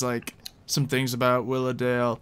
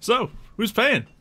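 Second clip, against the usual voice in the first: teasing; 11 semitones higher, 4 dB louder, slower than usual. Pretend. GM teasing the party.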